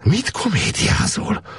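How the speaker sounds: high, slow reproachful snap; scolding. Acted. Woman scolding Gábor for play-acting, high slow rebuke. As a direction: tell him off for clowning. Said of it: "szólt rá".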